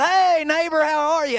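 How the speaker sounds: lightly acted neighbor calling hello; neighborly greeting. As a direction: hail someone across the yard.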